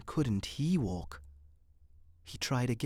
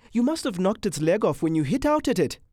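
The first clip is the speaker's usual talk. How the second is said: raised, louder playful accusation; teasing amusement; 6 semitones higher, 7 dB louder, faster than usual. A narrator's reading. Man laughs at her over the locust, teasing. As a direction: poke fun at her, amused. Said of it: "He was laughing at her".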